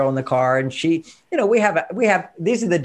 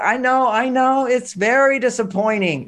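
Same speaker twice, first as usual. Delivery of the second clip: soothing; 6 semitones higher than usual. Shown as a demonstration. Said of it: "I wanna role model this one".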